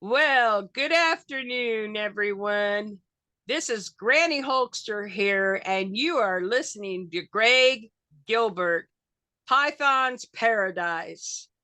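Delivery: slow, announcer-style show plug; Granny Hulkster plugging the host's radio show, slow and announcer-like. Acted. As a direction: read it like an on-air promo. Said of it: "Just state your name".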